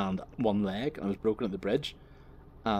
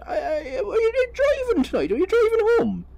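put-on over-the-top Irish accent; 7 dB louder than usual. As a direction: question like a hammed-up Donegal policeman. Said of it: "his voice was quite over the top".

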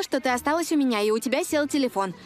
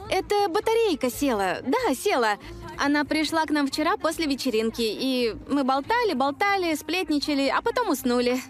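nervous cheerful lie; 4 semitones higher than usual. Acted. Lying nervously to cover friend.

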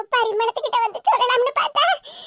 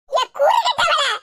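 sharp exasperated rebuke; scolding; 3 semitones higher, slower than usual. Acted. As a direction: scold the crying granddaughter, drawing it out. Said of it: "நீ என்ன ஏசுதா". (திட்டும் குரல்)

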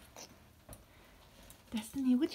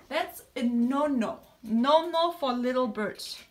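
gentle scolding; 5 dB louder than usual. Real, not acted. Scolding the bird in baby talk.

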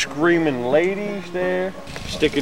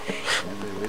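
quiet giggle; 6 semitones lower, 14 dB quieter than usual. Acted. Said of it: "I'm laughing because".

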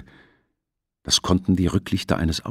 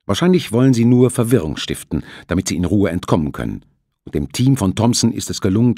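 stubborn; 2 semitones higher, 4 dB louder than usual. Acted. Captain refuses calmly.

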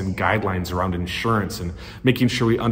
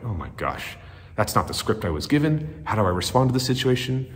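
panicked inner thought; 5 dB quieter than usual. Retold or imitated.

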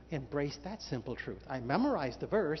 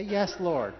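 called out; 2 semitones higher, 5 dB louder than usual. Shown as a demonstration.

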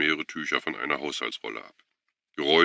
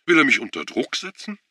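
high, loud upset cry; a high, indignant exclamation; upset outcry; 11 semitones higher, 5 dB louder than usual. A narrator's reading. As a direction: she feels cornered and cries out. Schuwan upset at video.

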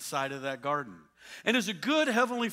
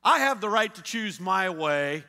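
louder, mocking defiance; mock indignant driver; 4 dB louder than usual. Preacher mocking a reckless driver, indignant. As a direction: sneer at the warning sign. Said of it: "do you get all upset saying".

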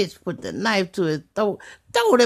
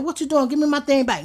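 raised, higher voice demanding the bird back; arguing over the bird, raised demanding voice; heated demand; 7 semitones higher, faster than usual. Retold or imitated. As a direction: insist hard, pitch up.

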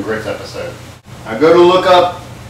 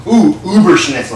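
"Uberschnitzel" said louder, higher, relishing it; delighted; 3 semitones higher, 4 dB louder than usual. Shown as a demonstration. Cook relishes his invented dish name "Uberschnitzel". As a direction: savour "Uberschnitzel" like a prize find. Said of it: "I kinda like that".

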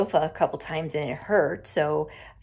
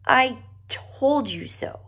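victorious; 6 semitones higher, slower than usual. A narrator's reading. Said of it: "victory in her voice".

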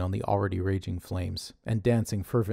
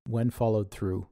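plain reading voice

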